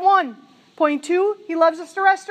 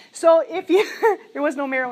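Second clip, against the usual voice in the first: laughing. Real, not acted. Laughs mid-sentence.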